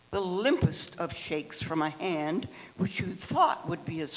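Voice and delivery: steady, deliberate poetry recital; poem reading. Acted. Member reading a poem to the group, deliberate recital. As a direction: give each line its own weight, like reading at an open mic. Reads Fenton poem aloud.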